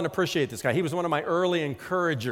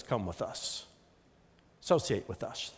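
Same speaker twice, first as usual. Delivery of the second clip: low bully lure; 5 semitones lower, 7 dB quieter than usual. Acted. Voicing neighborhood bully.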